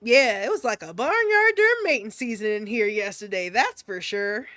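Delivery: composed folksy delivery, no laughing; straight-faced. Acted. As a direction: deliver the silly line with a straight face. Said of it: "say this with a straight face".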